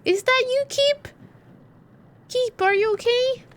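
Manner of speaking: surprised, worried. Real, not acted. Startled by roaring friend.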